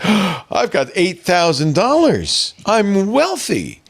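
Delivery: slow, gasping mock glee; mock delighted. Recalling cashing out early, slow mock-giddy delight. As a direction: savour the windfall slowly after a gasp. Retelling his own gleeful reaction.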